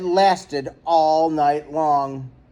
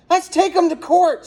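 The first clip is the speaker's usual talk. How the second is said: much higher furious screech; screaming; 12 semitones higher, 3 dB louder than usual. A narrator's reading. Angry neighbor screams at the meeting about suing, much higher. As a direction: scream it out, fed up with the lights. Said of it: "screamed another".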